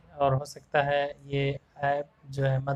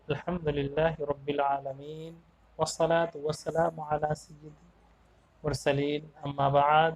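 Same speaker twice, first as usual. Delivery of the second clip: slow, soft Arabic opening praise; a teacher's slow formal opening; formal invocation; 3 dB quieter, slower than usual. Acted. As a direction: intone it slowly and devoutly.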